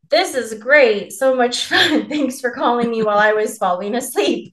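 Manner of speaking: dry fake enthusiasm; sarcastic. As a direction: pretend to be thrilled at being woken up. Sarcastic reply to late-night call.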